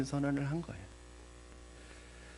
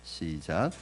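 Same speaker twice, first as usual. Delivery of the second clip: ordinary delivery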